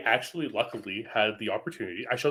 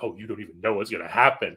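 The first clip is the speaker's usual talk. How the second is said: retold smug inner voice, lower pitch; smirking; 4 semitones lower than usual. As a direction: tease knowingly through a little smirk. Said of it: "little smirk on my face".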